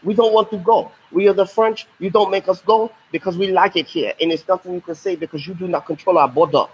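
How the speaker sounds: teacher voicing the French refusing to leave; defiant French colonists. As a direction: play the French digging in their heels. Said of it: "And they're like".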